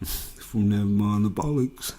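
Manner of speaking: loud mock back-announcement; name the record like a radio host. DJ naming the album just played, loud mock radio voice.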